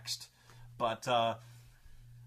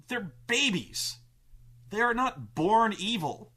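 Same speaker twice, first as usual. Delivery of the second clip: mock protest; 5 semitones higher, 4 dB louder, slower than usual. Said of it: "where we're like".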